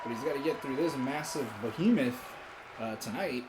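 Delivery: live play-by-play call; wrestling commentator. Acted. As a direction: announce the match like TV wrestling. Calls the wrestling match.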